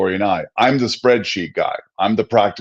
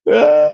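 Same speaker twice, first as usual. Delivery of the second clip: mock sob; 5 semitones higher, 5 dB louder than usual. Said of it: "like, sobbing".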